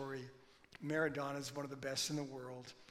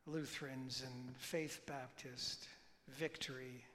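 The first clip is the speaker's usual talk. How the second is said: prayer. Acted. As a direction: pray gently for the churches. Pastor leads a prayer.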